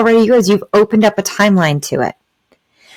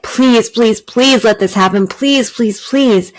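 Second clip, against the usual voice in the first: higher, pleading please; begging; 4 semitones higher than usual. Shown as a demonstration. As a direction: beg the universe, pitch lifted. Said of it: "a place of begging".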